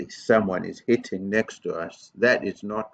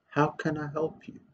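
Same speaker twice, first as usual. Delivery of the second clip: kind offer; 6 semitones higher, 7 dB quieter than usual. Shown as a demonstration. Models kind words to angry person.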